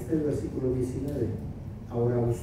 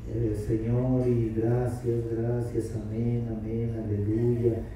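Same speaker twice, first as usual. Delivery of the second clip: mock someone mumbling filler praises; mumbled rote prayer; 4 semitones lower, slower than usual. Pastor imitating people who run out of words. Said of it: "yo creo que se dice".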